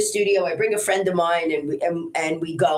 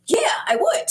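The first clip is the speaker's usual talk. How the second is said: Jim's reply. Retold or imitated. Editor Jim quoted agreeing.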